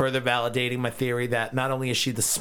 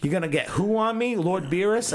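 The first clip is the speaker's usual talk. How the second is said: mocking nervous dragon; 5 semitones higher than usual. Shenron voiced, nervous.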